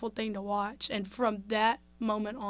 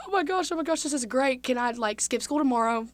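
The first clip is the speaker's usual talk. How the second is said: higher, louder thrilled gushing; excited gush; 3 semitones higher, 6 dB louder than usual. Retold or imitated. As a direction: gush like a kid who just got great news. Overjoyed as grandpa is saved.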